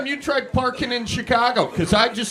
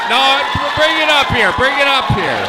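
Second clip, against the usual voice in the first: loud, higher call to the crowd; shouting out; 4 semitones higher, 7 dB louder than usual. Real, not acted. Comic calling a man up to the stage, shouting. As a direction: summon him up to the stage.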